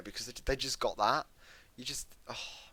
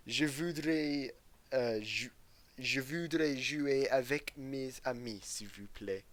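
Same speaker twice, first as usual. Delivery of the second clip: Shoxy in French; 2 semitones higher, slower than usual. Retold or imitated. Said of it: "that is Shoxy for you".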